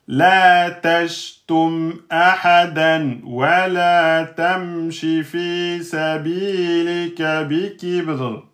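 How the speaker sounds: slow, measured tajwid chant; Quran recitation. Acted. Teacher reciting the verse to the class in a slow chant. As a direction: draw out each long vowel.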